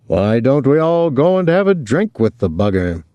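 a touch of hearty big talk; lightly voiced Willie. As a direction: put the question with a playful lift.

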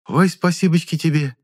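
high, gushing thanks; a village woman thrilled with the offer; delighted thanks. Acted. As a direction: beam with gratitude. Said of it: "обрадовалась женщина".

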